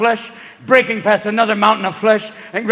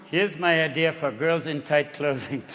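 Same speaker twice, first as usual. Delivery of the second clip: put-on German accent; 5 semitones lower, 6 dB quieter than usual. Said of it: "some German at a playground going".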